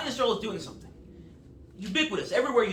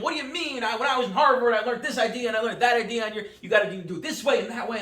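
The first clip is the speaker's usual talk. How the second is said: indignant outburst, pitched up and pushed loud; mock yelling; 2 semitones higher, 4 dB louder than usual. Young Harvard graduate yelling at the veteran CEO, mock indignant shout. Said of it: "yelling at him".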